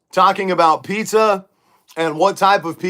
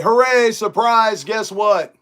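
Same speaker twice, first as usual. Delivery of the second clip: high, hammed-up hooray; mock-excited, raised-pitch reveal; mock surprise reveal; 5 semitones higher, slower than usual. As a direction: fake a big celebratory announcement. Mock announcing a big reveal.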